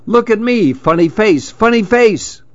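high sing-song taunt; teasing call. A narrator's reading. Chameleon teases the parrot to notice him, high sing-song. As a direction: tease them into looking.

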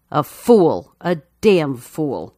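low, slow grieving words. A narrator's reading. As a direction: let it sink in sorrowfully. Nelson's grieving inner verdict.

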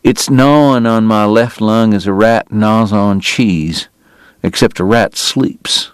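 slow, strained with pain; a sick man admitting his misery slowly; pained confession. Acted. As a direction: drag each word out through the hurt.

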